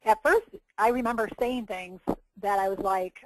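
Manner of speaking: ordinary talk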